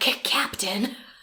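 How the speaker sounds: mock-frustrated, embarrassed whisper. Retelling how Barvati shoos the visitors away: retelling a frustrated whisper. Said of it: "[whispering and frustrated]".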